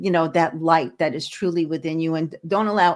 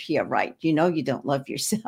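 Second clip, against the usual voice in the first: sceptical; 4 semitones lower, 4 dB quieter than usual. Retold or imitated. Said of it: "And then I'd say".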